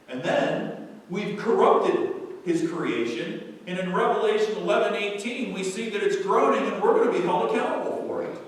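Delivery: forceful preaching. Real, not acted. Preacher warns the congregation of accountability, forceful preaching. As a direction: press the warning home loudly.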